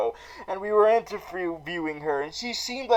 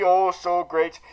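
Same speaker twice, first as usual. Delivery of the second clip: ordinary talk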